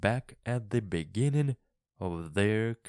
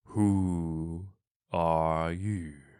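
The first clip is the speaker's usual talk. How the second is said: slow, sleepy, unhurried voice, drawn-out who; 3 semitones lower than usual. Narrator reads the caterpillar's words to Alice in a slow, sleepy voice. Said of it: "in a slow, sleepy voice".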